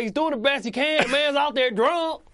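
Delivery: high, loud hammed-up coach pep talk; rally the team like an overexcited coach; imitating coach Singletary. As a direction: coach firing up a losing team at halftime. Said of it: "He's like".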